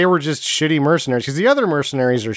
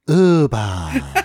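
drawn-out comic nonsense call; pleasant sound imitation. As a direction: mimic a silly noise meant to please a child. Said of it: "most pleasant sound to a child".

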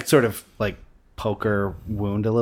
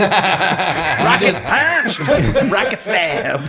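higher, louder, slow battle cry; anime attack shout; 9 semitones higher, 7 dB louder, much slower than usual. Pretend. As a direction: yell it like an anime move.

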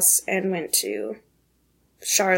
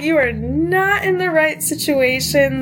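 retold crying; 6 semitones higher than usual.

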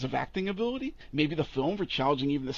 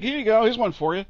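higher and louder offhand giveaway; mock writer tossing names off; 8 semitones higher, 8 dB louder than usual. Mocking a comics writer inventing characters, loud and offhand. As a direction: toss it off like a hack handing out a gift. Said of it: "He's like".

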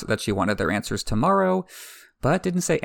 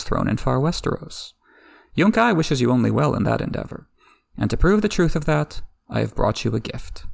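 oily envoy; 2 semitones higher than usual. Acted. Envoy flattering the queen with a bribe, lightly oily. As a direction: play the flattering slaver envoy, understated. Slaver envoy's speech voiced.

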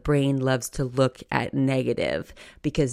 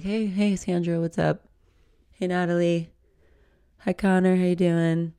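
lightly bright, higher hellos to coworkers; mock upbeat work greetings; cheery greetings; 4 semitones higher than usual. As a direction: sing out friendly hellos.

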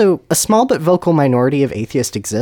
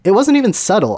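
high-pitched incredulous objection; exasperated protest; 8 semitones higher, 3 dB louder than usual. Acted. Voldemort defends his joke account, high and exasperated. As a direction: protest as though it were obvious.

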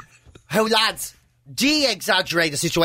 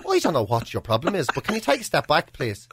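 playing it calm; 7 semitones lower, 3 dB quieter than usual. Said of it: "trying to play down the overreaction".

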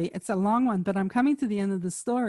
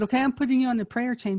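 brisk quote; 3 semitones higher, much faster than usual. Retold or imitated. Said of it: "So she said".

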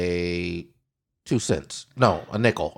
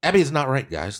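segment announcer. Acted.

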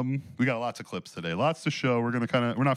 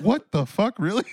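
stunned disbelief; 10 semitones higher, 6 dB louder than usual. Retold or imitated. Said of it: "I was like".

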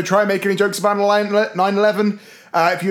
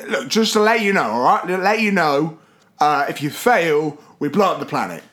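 menacing alien; 4 semitones lower than usual. Acted. Alien threat, low and slow.

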